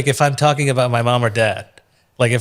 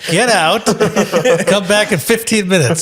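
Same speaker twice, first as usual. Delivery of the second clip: laughing; 5 semitones higher than usual. Pretend. Laughing mock dismissal of guest.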